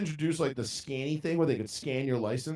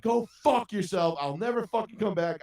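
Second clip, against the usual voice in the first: retold furious retort; 7 semitones higher than usual. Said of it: "I fucking lost it".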